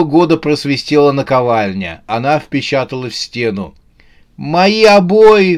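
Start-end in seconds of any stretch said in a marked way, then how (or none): 4.4-5.6 high, loud, drawn-out wail; dismayed cry. A narrator's reading. Оксана sees the anvil hit the wall, crying out. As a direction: cry out over the damage. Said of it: "послышался крик Оксаны".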